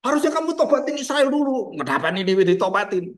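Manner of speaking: mildly indignant protest, pitch jumping up; Jonah, shocked and angry. Acted. Jonah complaining to God about Nineveh's repentance, shocked and cross. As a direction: act out a startled, cross complaint. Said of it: "Yunus kaget loh".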